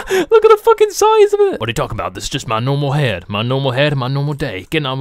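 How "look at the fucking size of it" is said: high, laughing squeal; laughing through words. Real, not acted. Player mocking the giant head, laughing high. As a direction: talk while cracking up.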